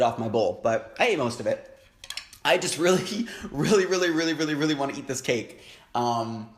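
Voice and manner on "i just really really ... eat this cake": laughing through repeated "really"; giggly craving. Real, not acted. To viewers, craving the cake, laughing. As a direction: giggle while begging for cake.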